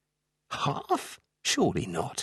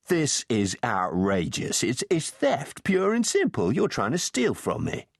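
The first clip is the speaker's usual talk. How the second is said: indignant, voice climbing higher; outraged; 5 semitones higher than usual. A narrator's reading. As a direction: sputter with rising outrage. Calvin outraged at being robbed.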